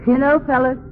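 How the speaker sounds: put-on rally the boys overseas; rousing patriotic speech. Patriotic address to the troops.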